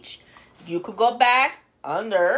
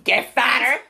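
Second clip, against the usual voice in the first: laughing; 4 dB louder than usual. Real, not acted.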